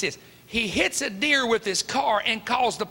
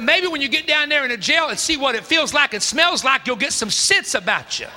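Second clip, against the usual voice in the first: stern scolding; 5 semitones higher, 6 dB louder than usual. Retold or imitated. Father scolding son loudly.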